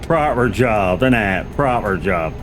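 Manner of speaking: a light West Country "Proper job" with "proper" leaned on; West Country accent. Pretend. Streamer repeats a West Country catchphrase in the accent.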